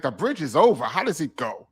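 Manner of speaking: skeptical sing-song questioning; mock disbelief, retold; incredulous questioning. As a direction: question it as if the idea makes no sense. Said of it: "I'm talking to him like".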